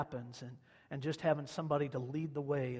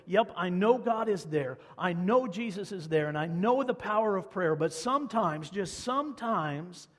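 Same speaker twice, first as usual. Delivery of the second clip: voicing every Christian; 4 semitones higher, 6 dB louder than usual. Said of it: "felt exactly like that little boy".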